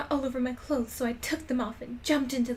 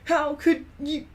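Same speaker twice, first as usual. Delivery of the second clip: slow, rising to a much louder, higher shriek; hammed-up furious screech; mock outraged yell; 10 semitones higher, 16 dB louder, slower than usual. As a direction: hurl the insult at her. Draco's acted accusation continues.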